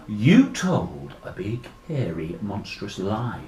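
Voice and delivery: slow, low creature voice; accusing monster. Acted.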